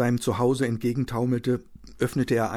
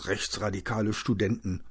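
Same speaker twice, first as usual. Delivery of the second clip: mildly mumbled answer. Acted. Injured man answers his wife's question, mumbling. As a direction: mumble it wearily, only slightly subdued. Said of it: "nuschelte Hendrik".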